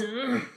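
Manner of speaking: a quiet imitated labor grunt; soft grunt. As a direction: hum out a little grunt. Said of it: "this little grunting".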